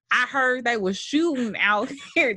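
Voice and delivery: attempted Oakland accent, coming out country. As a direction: imitate an Oakland man with a country twang. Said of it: "That's a very country accent".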